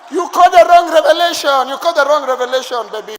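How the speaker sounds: loud, high laughing teasing; hearty laughing protest to his wife; laughing shout. Retold or imitated.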